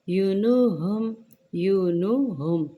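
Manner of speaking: युनुहुम with short, unstretched vowels; short harakat. Shown as a demonstration. Teacher warns not to lengthen युनुहुम. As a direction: keep युनुहुम short, no stretching. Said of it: "लंबा ना कीजिएगा".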